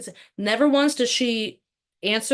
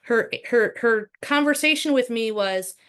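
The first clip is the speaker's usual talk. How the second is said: normal talking voice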